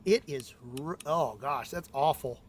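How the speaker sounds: straining to pull the handle; words squeezed out under effort. Real, not acted. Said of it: "Pull harder".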